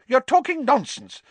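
high, loud, exasperated bark; Fudge barking. A narrator's reading. Minister dismissing a professor's wild claim, barking. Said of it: "Fudge barked".

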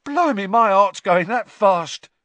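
a high, loud, rattled voice; shaken Cockney. A narrator's reading. Stan clutches his chest in shock, high and loud. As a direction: gasp it out, still shaken.

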